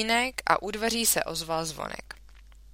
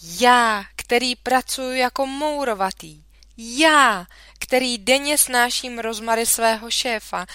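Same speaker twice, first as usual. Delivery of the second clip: indignant tirade; 6 semitones higher, 7 dB louder than usual. A narrator's reading.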